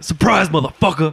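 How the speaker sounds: lightly imitated TV catchphrase; a hint of a TV character impression; guy from Dexter. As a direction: deliver it as a punchy quoted catchphrase. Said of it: "the guy from Dexter saying".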